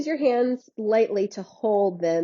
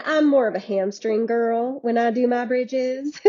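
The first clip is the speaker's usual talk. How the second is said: a hint of a Southern US accent. Real, not acted. Instructor chatting about her bridges to the class, Southern accent slipping out. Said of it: "my mom's Southern accent came out".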